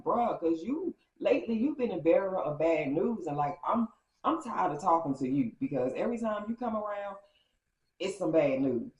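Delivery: retold exasperation with punched-up volume; fed-up retort. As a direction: tell him off, fed up. Acting out fed-up reply to Mike.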